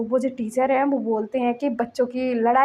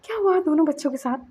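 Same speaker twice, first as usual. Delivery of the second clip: higher, breaking into a whisper at times, anxious; retold anxious father, mildly voiced; panicked worry; 4 semitones higher than usual. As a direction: stammer the questions as fear rises. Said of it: "वो घबरा रहा था, डर रहा था".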